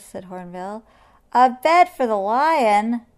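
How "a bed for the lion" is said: surprised. Acted. Animals amazed at the plan.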